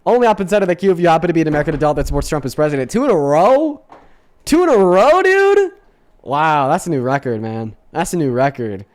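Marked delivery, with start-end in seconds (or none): 2.9-5.7 shocked high-pitched disbelief; loud, rising in utter disbelief; surprised. Real, not acted. Streamer reacts to second Brit.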